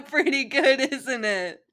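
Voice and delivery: high, loud tipsy teasing; loud goofy drunk pal; drunk Naruto. Acted. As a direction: push the bottle on him, grinning. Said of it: "Naruto wrapped an arm".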